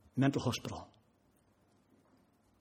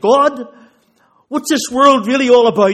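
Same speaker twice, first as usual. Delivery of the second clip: crying out to God; 9 semitones higher, 14 dB louder than usual. Retold or imitated. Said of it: "I cried out in the van".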